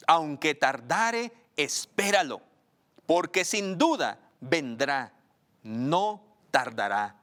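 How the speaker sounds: slow, emphatic scripture reading; lectura bíblica solemne. Acted. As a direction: proclaim the verse phrase by phrase, slowly. Reads scripture aloud. (lectura bíblica lenta y enfática)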